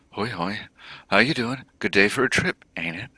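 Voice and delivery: twitchy orc dealer. Acted. Orc clocker greets possible customers, twitchy and pushy. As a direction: greet them like a jumpy salesman.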